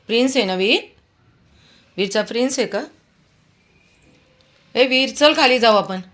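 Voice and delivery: high coaxing. Real, not acted. Owner coaxing her dog.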